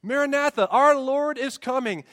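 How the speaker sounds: high, loud, triumphant preaching cry; ringing, exultant declaration; excited proclamation. Real, not acted. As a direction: proclaim it to the whole church, stretching the last phrase. Preacher proclaims the greeting to congregation.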